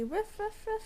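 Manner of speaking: high playful puppy ruff ruff; playful barking. Pretend. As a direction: bark like a little puppy for the toddler. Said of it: "Can you say".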